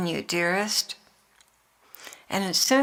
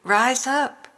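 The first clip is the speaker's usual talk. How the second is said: rising emphatic call; 4 semitones higher than usual. Acted. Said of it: "I say to you".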